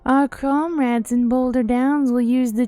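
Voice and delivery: loud, fast villain threat; menacing villain voice. Acted. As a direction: bark the plot like a villain. Villain voicing overheard plot.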